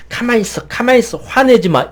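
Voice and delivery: suppressing scold. Retold or imitated. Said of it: "이래버리면 이 분노가 점점 세져요". (분노를 억누르며 높은 목소리로 꾸짖듯이)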